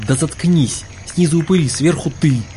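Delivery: irritated cry upward; angry outcry. A narrator's reading. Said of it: "Таргитай вскрикнул".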